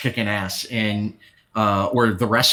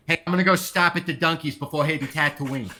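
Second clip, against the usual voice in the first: put-on Boston accent; 2 semitones higher, faster than usual. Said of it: "brings the Boston accent".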